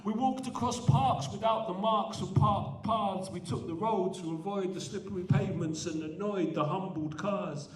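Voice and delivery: rhythmic spoken-word delivery; poetry recitation. Acted. Poet performing his Birmingham poem to the audience, rhythmic recitation. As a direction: ride the rhythm of each line.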